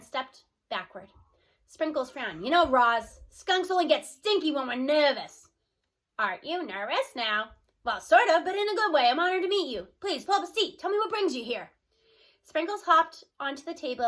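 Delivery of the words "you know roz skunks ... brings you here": louder, nervous but delighted skunk; eager skunk voice. Acted. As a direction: welcome the guests warmly and eagerly. Skunk Sprinkles talks to Roz.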